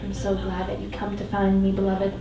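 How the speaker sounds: calming. Acted. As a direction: soothe her as she wakes. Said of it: "His voice is calming as the breeze".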